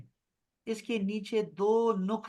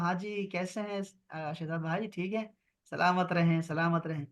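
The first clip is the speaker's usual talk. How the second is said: softly voiced friendly greeting; a touch of greeting; 3 dB quieter than usual. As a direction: greet a friend casually, a bit softer. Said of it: "آپ سے میں کہتا ہوں". (ہلکا سا دوستانہ سلام)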